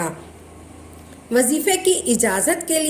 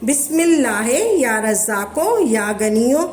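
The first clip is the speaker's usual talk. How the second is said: एक साथ मिलाकर पढ़ना; 2 semitones lower than usual. Shown as a demonstration. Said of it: "आपने तीस मरतबा ऐसे पढ़ना है".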